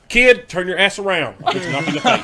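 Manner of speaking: mock yell at kid. Retelling the fan yelling at the kid, mock yell. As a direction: bark it at the kid, hammed up. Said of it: "He turned around".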